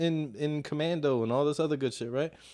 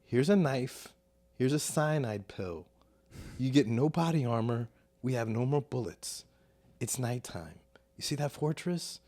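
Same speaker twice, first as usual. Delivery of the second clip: lower, softer, deadly serious briefing; grim mission briefing; 5 semitones lower, 3 dB quieter than usual. Retold or imitated. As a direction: hand out a suicide mission in low, hushed tones. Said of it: "Michael Jordan is".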